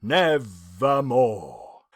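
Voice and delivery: low, slow croak; drawn-out low raven croak. A narrator's reading. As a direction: let the raven croak it out slowly. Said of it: "in croaking".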